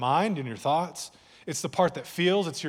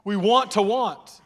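louder, stress on want; preacher's raised repeat; louder emphatic take; 3 semitones higher, 5 dB louder, slower than usual. Shown as a demonstration. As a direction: push it out with force. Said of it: "Let me say it this way".

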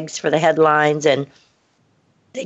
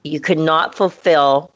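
lower, calm and polite brush-off; very nicely; 3 semitones lower than usual. Retold or imitated. She politely fires the freelancer, calm and lower. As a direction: close the door kindly but firmly. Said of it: "just very nicely back".

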